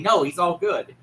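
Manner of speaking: laughing through a mock dismissal; laughing mock quote. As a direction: brush it off while laughing. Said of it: "Harry's still saying".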